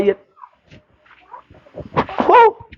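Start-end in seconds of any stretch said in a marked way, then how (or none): 2.3-2.7 high, delighted wow; amazed wow. Real, not acted. Preacher to congregation, a high amazed wow.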